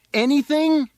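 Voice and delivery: very high, loud yell; shouted demand. A narrator's reading. Boy leaning out into the darkness, shouted demand. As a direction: yell the word as a challenge. Boy presses rabbi from roof.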